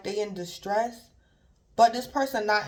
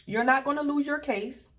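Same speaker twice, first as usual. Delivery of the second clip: raised, soothing friend voice; reassuring friend; 7 semitones higher than usual. Retold or imitated. Friend reassuring the worried Gemini, soothing and pitched up. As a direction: play the calming friend, pitched up. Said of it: "Somebody could be saying".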